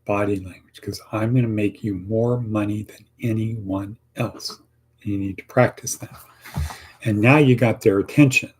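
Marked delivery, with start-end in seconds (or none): 0.8-4.6 confident and positive, with a gentle nod; positive delivery. Shown as a demonstration. Job candidate answering the interviewer, positive and sure. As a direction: sell it like you mean it. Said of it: "you gotta be positive like this".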